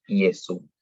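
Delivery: Iesu con i inicial; j como i. Shown as a demonstration. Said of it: "es como una I". (Iesu pronunciado con i)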